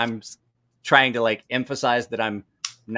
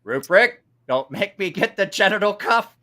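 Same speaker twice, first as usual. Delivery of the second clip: Michael Caine impression; 7 semitones higher, 5 dB louder than usual. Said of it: "Michael Caine's like".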